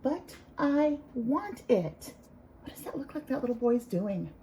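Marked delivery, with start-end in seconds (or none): 0.0-2.1 slow title read. Shown as a demonstration. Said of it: "It is called".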